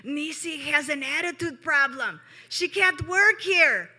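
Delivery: put-on loud, high raspy old-lady voice; hammed-up raspy boss complaining; imitating Granny. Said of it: "she says".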